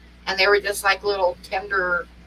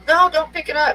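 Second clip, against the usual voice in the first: tag; 9 semitones higher, 4 dB louder than usual. Retold or imitated. Retold warning about the pan lid.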